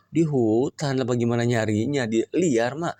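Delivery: put-on a boy who can't believe it; surprised son. Son surprised cow is in forest. (anak kaget bertanya)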